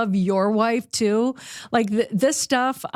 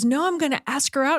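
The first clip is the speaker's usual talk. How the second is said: imitating a beaming man, higher pitch; beaming delight; 5 semitones higher than usual. Friend retelling his decision to ask her out, beaming delight. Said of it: "he just, like, beamed".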